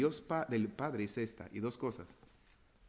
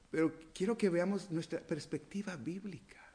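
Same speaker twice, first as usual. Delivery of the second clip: whisper; 6 semitones higher than usual. Acted. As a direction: lean in and whisper the point. Whispered intimate point.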